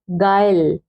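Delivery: "गाइल" ending right on the l; silent letters. Shown as a demonstration. Teacher modelling "गाइल" for pupils as gail, silent letters. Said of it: "ई का भी sound नहीं दिया".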